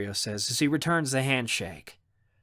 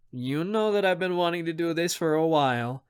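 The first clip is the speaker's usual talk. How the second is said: higher, playful tease; mock-serious with a lifted pitch; teasing; 4 semitones higher than usual. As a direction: tease her lightly. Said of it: "he says with a teasing tone".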